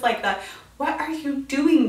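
ordinary talk, nothing marked

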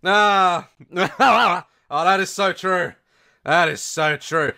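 fake phone laugh. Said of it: "they're looking at the phone and like".

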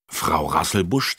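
usual speaking voice

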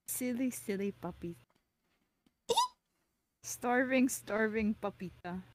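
eating while talking; talking through a bite of food; mouth full. Real, not acted. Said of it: "Are you eating a Pap Tart?".

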